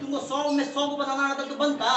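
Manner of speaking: laughing it out loud. Real, not acted. Tutor teasing his student, laughing. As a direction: chuckle through the words. Teacher jokes about easy marks.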